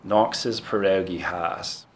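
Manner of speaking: slow, careful Pittsburgh accent demo. Shown as a demonstration. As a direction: spell out Knox, pierogi, house the Pittsburgh way. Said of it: "You gotta get the aw in Knox".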